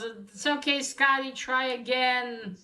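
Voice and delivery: mild mock yell to cheer on a child; retold encouraging yell. Mom to Scotty after he misses, mild encouraging yell. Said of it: "mom yells".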